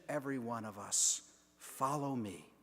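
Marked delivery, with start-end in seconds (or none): 1.6-2.5 soft, quiet invitation on a sigh; sighing breath. Retold or imitated. Jesus calls each of us, soft sighing breath. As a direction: breathe it out gently. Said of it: "speaks like a sighing breath".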